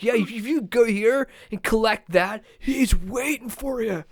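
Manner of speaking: a hint of a laid-back game guide; game character voice. Telling the player where to go in a lightly put-on game guide voice.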